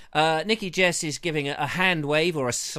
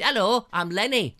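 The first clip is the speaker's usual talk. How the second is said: Lenny voice; 3 semitones higher than usual. Acted. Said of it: "I've gone into Lenny".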